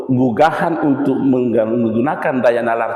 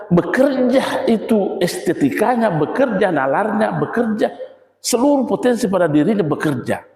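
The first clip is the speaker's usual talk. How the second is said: laughing enthusiasm; 6 semitones higher than usual. Real, not acted.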